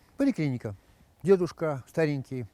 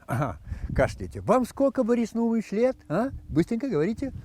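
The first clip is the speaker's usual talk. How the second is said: doctor voice; 8 semitones higher than usual. Acted. Hurried doctor questions.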